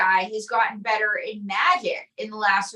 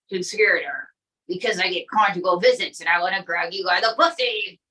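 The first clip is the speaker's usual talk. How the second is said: low, lightly voiced bragging Trump; boastful Trump puppet; 5 semitones lower than usual. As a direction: brag like the puppet president.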